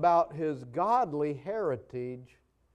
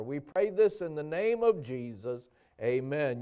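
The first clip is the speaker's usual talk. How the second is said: earnest spoken prayer to the Father. Acted. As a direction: pastor praying over the congregation. Pastor leads a prayer.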